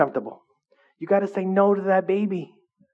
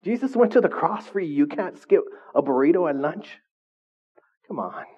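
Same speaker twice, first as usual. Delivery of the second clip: incredulous retort; 2 semitones higher than usual. Retold or imitated. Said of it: "It's like".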